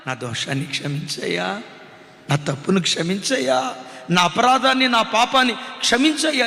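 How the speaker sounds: imagine Paul's tearful plea for forgiveness, understated; tearful confession. Retold or imitated. Paul in the dark house begging God's pardon, mildly tearful. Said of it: "ఏడ్చి ఉంటాడు".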